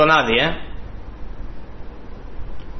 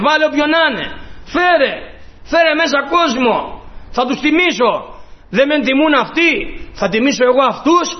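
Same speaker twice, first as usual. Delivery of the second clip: a hint of the king calling; 4 semitones higher than usual. Preacher voices the king's call.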